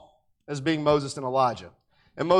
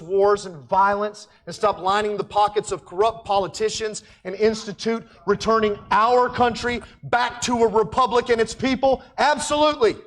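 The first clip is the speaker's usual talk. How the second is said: rising passion; 4 semitones higher than usual. Real, not acted. Building political rant climax.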